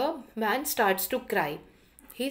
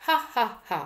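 mocking laugh; 2 semitones higher, faster than usual. A narrator's reading. Freed lion laughing at the foolish man, mock laugh. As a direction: gloat with a storyteller's hammed-up laugh. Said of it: "he starts laughing".

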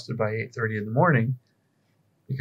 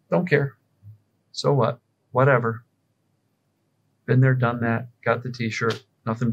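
nonchalant. Shown as a demonstration. Coach shrugging off symptoms, nonchalant. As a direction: shrug it off, unbothered. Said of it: "the ultimate response to symptoms is this".

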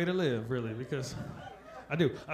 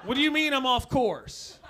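louder, higher rant of a runner on mushrooms; a hammed-up paranoid runner seeing through it all; tripping runner; 6 semitones higher, 6 dB louder than usual. Runner on mushrooms told he is off course, louder, high ranting.

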